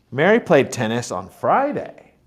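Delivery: Friday lifted and lengthened at the end; stress on Friday. Shown as a demonstration. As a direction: punch the word Friday. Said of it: "not Saturday".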